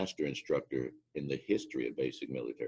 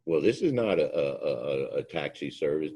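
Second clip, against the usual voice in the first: snippy reply; 5 dB louder than usual. Retold or imitated. Rude airman refusing a pickup.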